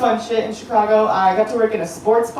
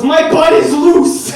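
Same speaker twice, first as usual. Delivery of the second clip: he goes; 6 semitones higher, 7 dB louder, slower than usual. Retold or imitated. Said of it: "And he goes".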